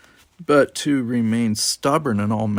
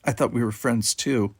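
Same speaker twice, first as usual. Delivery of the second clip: angry; 3 semitones higher, 4 dB louder than usual. Acted. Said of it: "she said angrily".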